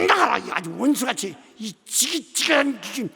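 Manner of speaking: shouting at the ghost, rising to a yell; furious exorcist shout building to a roar; hateful casting out. Retold or imitated. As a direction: drive the ghost out with loathing. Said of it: "감정적으로 귀신을 미워하는 게야".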